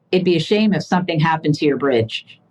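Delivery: a hint of a Goodfellas mobster; friendly threat. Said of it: "That sounds very mafia-like".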